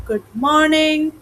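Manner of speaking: "Good morning" drawn out high and slow; schoolchildren's long-drawn "Good morning"; childhood singsong greeting. Retold or imitated. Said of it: "we used to say in the childhood".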